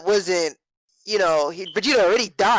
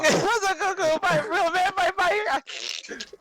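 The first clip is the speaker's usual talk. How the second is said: mocking laugh; 9 semitones higher, much slower than usual. Mocks friend's line, laughing.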